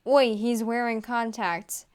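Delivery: yelling. Acted. Shrek tells the officers about Puss, loud yell. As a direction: call it out to get the officers' attention. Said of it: "Shrek yelled to the officers".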